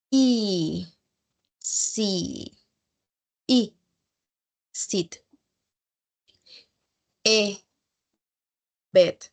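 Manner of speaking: vowel sound, then example word; slow, isolated sounds with pauses; phonics drill. Shown as a demonstration. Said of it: "give you an example words".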